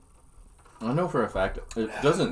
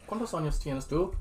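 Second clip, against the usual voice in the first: put-on Irish accent Spanish; 8 semitones higher than usual. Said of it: "speak Spanish in an Irish accent".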